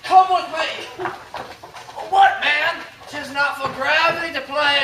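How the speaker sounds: high teasing call; mock coaxing. Coaxing Malvolio like a bird.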